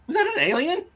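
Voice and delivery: high-pitched question breaking into laughter; laughing through mock astonishment; amused double take. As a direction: act amazed, then crack up. Repeats double take while laughing.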